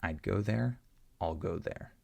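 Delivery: "I'd" with stopped d, then "I'll" like "all"; contrast I'd and I'll. Shown as a demonstration. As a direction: set stopped "I'd" against reduced "I'll". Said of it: "Listen again".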